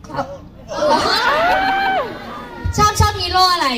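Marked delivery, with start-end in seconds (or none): 0.3-2.7 big high laugh. Real, not acted. Host laughs on stage.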